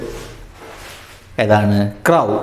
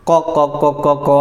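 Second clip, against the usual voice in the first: short clucks in a quick run; rapid demonstrated cluck-cluck-cluck; imitated chicken clucking; 3 semitones higher, much faster than usual. Shown as a demonstration. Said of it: "അതാണ് ദീക്കിൻ്റെ ശബ്ദം".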